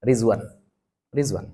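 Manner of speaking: "Rizwan" with a z sound for the d; Malaysian pronunciation. Shown as a demonstration. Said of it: "apa mereka nyebutnya?".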